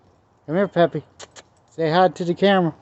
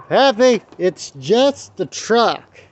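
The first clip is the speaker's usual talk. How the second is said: calling out; 5 semitones higher, much slower than usual. Real, not acted. Calling the dog sharply.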